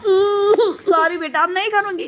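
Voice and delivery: stretched-out, half-laughing fake sob; mock crying sorry. Mother to her sulking daughter, mock crying sorry. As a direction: drag the sorry out like a pretend cry, slowly. Mother apologizes to upset toddler.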